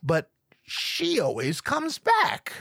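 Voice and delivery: drawn-out, high lazy guy voice, mocking; slow mock dude voice. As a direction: slowly savor each word like the guy did. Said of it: "Actual statement".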